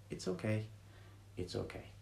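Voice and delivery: tender, soothing reassurance; soft reassuring. Shown as a demonstration. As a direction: comfort a small upset child gently. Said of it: "We'd say it in a very soft, reassuring voice".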